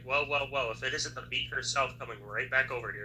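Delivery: smug taunt; sarcastic. Acted. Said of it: "I was gonna say something sarcastic".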